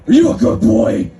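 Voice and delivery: high, loud cooing dog-owner voice; baby talk to a dog. Retold or imitated. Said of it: "look a dog in the eyes and say".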